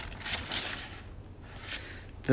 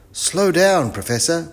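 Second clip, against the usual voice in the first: put-on high, raised child's call; 10 semitones higher, 6 dB louder than usual. A narrator's reading. Wilf warns the professor, calling out high. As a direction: call to someone, short of a yell. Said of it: "called Wilf".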